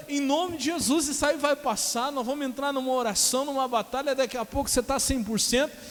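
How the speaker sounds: high, urgent exhortation; rally a broken man to get up and fight; impassioned preaching. Retold or imitated.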